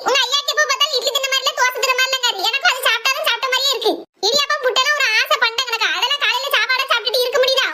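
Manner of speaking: high-pitched, exasperated complaining; exasperated rant. Acted. Mother venting to her daughters about cooking every day, exasperated.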